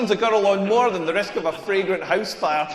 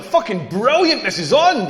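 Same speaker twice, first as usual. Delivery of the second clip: mock blurted excitement, pitched up; too-loud elation; 2 semitones higher than usual. Comedian accepting her invitation home, too eagerly. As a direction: blurt it out, overkeen. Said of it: "wished I'd said it a little bit quieter".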